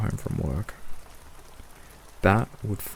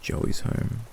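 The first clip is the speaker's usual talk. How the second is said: hushed, raspy imitation; parrot mimicking rasp; 5 dB quieter, much slower than usual. A narrator's reading. Parrot repeats that voice to owner, rasping. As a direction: rasp it without voice, eerily repeated. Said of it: "he said in that voice".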